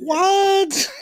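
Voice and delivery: high, incredulous what through laughter; laughing disbelief. Real, not acted. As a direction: laugh it out, caught off guard. Laughing at a teammate's remark.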